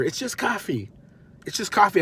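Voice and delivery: high-pitched mock self-soothing; comic attempt to keep your composure; strained composure. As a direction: talk yourself down, barely holding it in. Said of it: "Trying to keep my composure".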